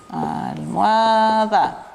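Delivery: Almohada stretched very slowly with a falling end, as al-mo-a-da; slow it right down to show "Almohada" ends in a, da; syllable-by-syllable demo of "Almohada"; drawn out. Shown as a demonstration. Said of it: "Termina con a, da".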